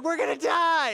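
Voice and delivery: high-pitched imitated panic; mock terrified cry. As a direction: wail it like panicking passengers. Girls' panicked cry, acted out.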